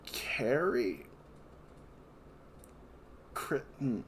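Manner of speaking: talking around a mouthful; words muffled by food in mouth; mouth full. Real, not acted. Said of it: "I just had something in my mouth".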